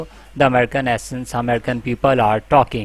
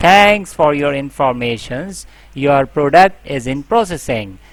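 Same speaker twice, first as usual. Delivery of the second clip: agent script voice. Shown as a demonstration.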